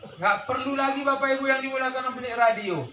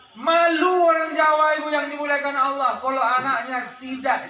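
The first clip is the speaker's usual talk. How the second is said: preaching shout; 4 semitones higher, 5 dB louder than usual. Real, not acted. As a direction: call it out hard to the congregation. Preacher drives home his point.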